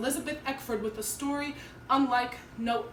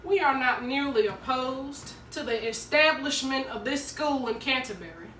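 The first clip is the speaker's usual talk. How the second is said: stern, measured public denunciation; segregationist orator; 3 dB louder than usual. Acted. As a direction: declare it like a hostile town spokesman, pressing harder at the end. Segregationist's speech acted out.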